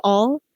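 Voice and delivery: "all" said as the Southern form of UL and OL endings; Southern-accent pronunciation. Shown as a demonstration. Explaining which sounds bring the accent out, "all" said the Southern way. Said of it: "a U L or an O L".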